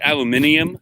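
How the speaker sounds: aluminium said the British way, with an extra syllable; British pronunciation. Shown as a demonstration. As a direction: say "aluminium" as al-yoo-MIN-ee-um. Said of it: "as the British would say".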